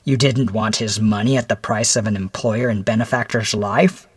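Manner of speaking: probing questions in a slightly altered voice; a touch of the interrogator; lightly voiced stern visitor. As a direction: press him with measured questions.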